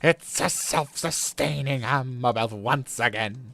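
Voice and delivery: slow, gloating mad scientist voice. Pretend. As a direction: savor each word like a mad genius. The genius of my plan.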